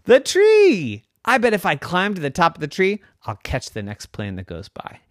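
high excited shout at the tree; a kid thrilled by his plan, voice jumping up; excited boy. Acted. Boy spots the tall tree, excited.

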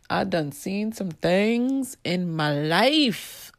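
slow, knowing, dramatic delivery; world-weary sass; sassy slow drawl. Real, not acted. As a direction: drag it out like you've seen it all.

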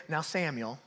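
soft, low Alabama drawl; mom's Alabama accent. Retold or imitated. Alabama mom addressing her son, soft Southern accent. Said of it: "this, this accent".

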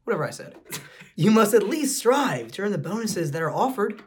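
lady voice. Acted. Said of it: "I don't know how to do a lady voice".

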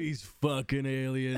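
slow, gruff action-hero growl; mock Duke Nukem.

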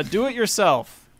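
flat robot announcer voice. Pretend. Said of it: "in my robot voice".

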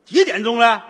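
put-on Northeastern accent. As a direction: ask the time like a Northeastern warlord. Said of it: "东北口音". (东北口音大帅问话)

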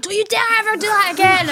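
a touch of the furious boss's telling-off; mock raging boss. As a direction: boss laying down the law, half-hammed. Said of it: "And he was raging".

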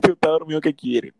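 laughing out the words; laughing echo. Real, not acted. Echoing his friend's joke, laughing hard. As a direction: repeat the line while laughing loudly. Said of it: "echoed with laughter".

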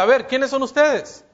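a retold fright, acted lightly; startled question. Mary frightened, asking the two angels who they are, mock-startled. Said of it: "Se espanta y les pregunta".

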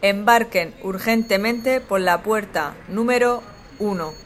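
slow, formal PA call; airport announcement. Pretend. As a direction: call passengers to the gate. End of the boarding call. (anuncio de aeropuerto)

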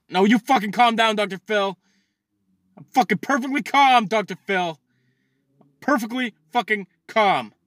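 heated, high-pitched denial of anger; angry retort. Pretend. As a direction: insist on being calm while blowing up. Acted quarrel with imagined Dr. Phil.

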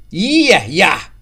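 loud, furious yell; explosive angry shout; raging. A narrator's reading. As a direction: roar it impatiently at a cowering man. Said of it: "raasde Jan".

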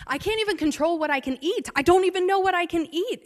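reenacted panic that builds to a loud high yell; building retold scream. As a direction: relive the breakdown, climbing into a near-shout. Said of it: "screaming about how".

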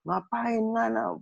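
high, sharp scolding in Manado dialect; mother scolding her son for signing up; angry mom in Manado dialect. Retold or imitated. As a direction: snap at him like a furious mother. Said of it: "mama marah banget".

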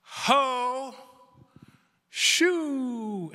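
high, hammed-up outburst shout; imitating a lady's sudden shouts during worship; mock yell. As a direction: blurt it out like a sudden holy shout. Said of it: "She, she yelled".

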